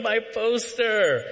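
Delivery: put-on high, drawn-out childish wail; hammed-up tearful whine, stretched way out; mock crying. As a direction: imitate a little girl wailing over her loss. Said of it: "this little girl crying her eyes out".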